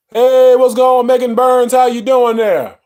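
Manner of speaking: bright, loud hello to a viewer; excited greeting. Real, not acted. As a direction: call out a warm hi.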